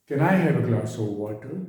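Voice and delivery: slow, with "glass" and "water" stressed; gentle stressed request. Shown as a demonstration. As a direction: lean gently on "glass" and "water", rising at the end. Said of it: "कुछ words पे जोर दे रहा हूँ". ("glass" और "water" पर ज़ोर देकर धीमी विनती)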